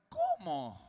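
loud astonished question in another voice; stunned. Retold or imitated. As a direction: ask it like you misheard. John shocked again.

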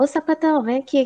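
high, teasing call across the room; calling a friend over, playfully; friendly call-out. Retold or imitated. Friends calling each other over, teasing call. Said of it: "meus amigos falam".

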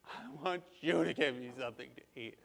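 imitated little-kid demand; put-on small child voice, softly pleading; whining child. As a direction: whine it like a hungry kid. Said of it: "She goes".

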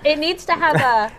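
talking while chewing; words round a bite of food; mouth full. Real, not acted. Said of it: "can you hear me chewing right now".

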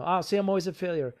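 a hint of the wounded inner voice; mock inner critic. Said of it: "You know".

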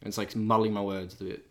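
hoarse, croaky sore throat. Real, not acted. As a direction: talk through a croaky throat. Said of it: "a little little bit croaky".

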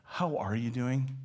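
slow, caring how are you doing; slow, paused question. Shown as a demonstration. Preacher showing a caring friend, slow and sincere. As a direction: ask it slowly as if you mean it. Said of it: "how you have that pause?".

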